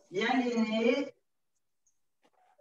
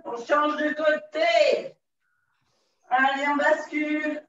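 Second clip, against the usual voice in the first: calling out; 2 semitones higher than usual. Acted. Instructor calling out side change.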